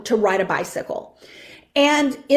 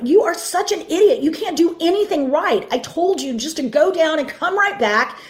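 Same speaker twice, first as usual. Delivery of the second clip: mock father yelling; 5 semitones higher than usual. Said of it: "begins to yell at him".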